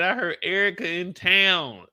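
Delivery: high, slow put-on woman's voice, rising to a shrill peak; a hammed-up high voice, soaring at the end; mocking her. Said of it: "She pulled up and said".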